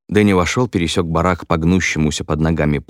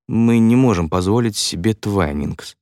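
usual speaking voice

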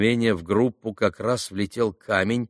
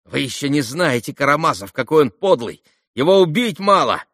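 higher-pitched, taunting schoolboy; clamouring boys; 6 semitones higher, 5 dB louder than usual. A narrator's reading. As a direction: jeer after him like a gang of kids. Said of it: "В группе загалдели". (мальчишеский галдёж)

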